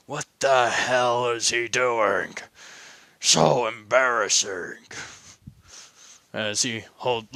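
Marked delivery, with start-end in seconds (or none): 0.1-4.9 a hint of a slow, grumbling old man; lightly voiced annoyed grandfather; grumpy grandpa. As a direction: mutter it like a disapproving grandpa. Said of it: "Papa is more along the lines of".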